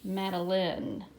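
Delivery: "Madeline" said slowly, ending in a short-i "lin"; careful, slow "Madeline", last syllable not rhyming with "fine"; sounded-out name. Shown as a demonstration. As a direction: draw out "Madeline" so the short i is heard. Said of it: "Listen again".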